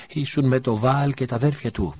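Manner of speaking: a stranger's suspicious accusation; accusing voice. A narrator's reading. Accuser in the crowd. (κατηγορία από το πλήθος)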